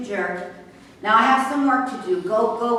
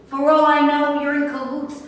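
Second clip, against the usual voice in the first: angry; 5 semitones higher, 4 dB louder than usual. Acted. Suspicious angry accusation.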